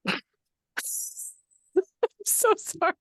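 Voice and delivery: high, breaking through laughter; laughing apology. Real, not acted. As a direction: apologize while cracking up. Laughing after a spit take.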